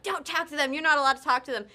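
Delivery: insistent retold telling-off; imitated scolding. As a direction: imitate someone ordering her off. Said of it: "they're like".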